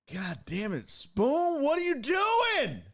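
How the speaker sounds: high, rising exasperated yell; exasperated shout. Real, not acted. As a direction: call out the culprit, drawing out the last words. Scolds Spoon over the glitch.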